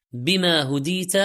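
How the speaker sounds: ordinary talk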